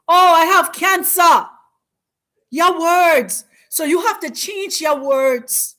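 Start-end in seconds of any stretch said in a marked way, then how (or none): 0.1-1.5 mock cry of despair. Mock lament of the sick.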